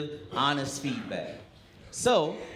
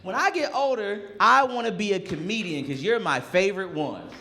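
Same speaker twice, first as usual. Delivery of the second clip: put-on higher little-boy voice, lightly done; imitating a kid; 5 semitones higher, 3 dB louder than usual. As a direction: voice an eager young boy. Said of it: "And he goes".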